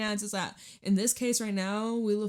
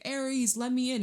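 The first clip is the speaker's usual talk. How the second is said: pleading at the door; 5 semitones higher than usual. Retold or imitated. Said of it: "they're knocking on your door, they're like".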